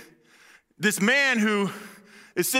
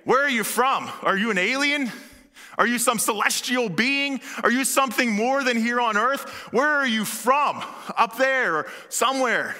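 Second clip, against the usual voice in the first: awed wondering; 3 semitones higher than usual. Shown as a demonstration. Pilate asking Jesus in awe and wonder. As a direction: ask as if facing something not of this earth. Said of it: "This is a".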